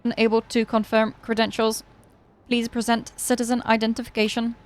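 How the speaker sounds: stiff even robot voice; monotone machine reading each word; old speech synthesizer. Acted. Robot speaks its lines.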